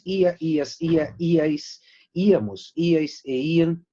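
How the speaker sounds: "ia, ias, ia, iais, íamos, iais e ian" with the accent on each I; each ending of "ia, ias, íamos" led by a stressed I. Shown as a demonstration. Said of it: "siempre con acento en la I".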